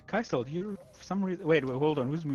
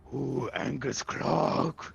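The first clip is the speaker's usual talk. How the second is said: angry Clog; 3 semitones higher, 6 dB louder, much slower than usual. Acted. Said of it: "and he's just like".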